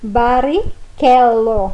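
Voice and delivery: Barrichello slow, with ch as k; slow Italian name. Shown as a demonstration. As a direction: draw out Barrichello, barikelo. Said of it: "Por exemplo".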